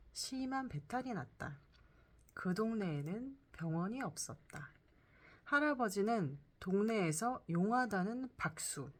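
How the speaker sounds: storyteller reading a scripted tale; story narration. Acted. Reads a first-person story.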